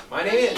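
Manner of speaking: My name is said loud and firm; strong start. Shown as a demonstration. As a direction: model a punchy, loud My name is. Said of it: "with a strong start".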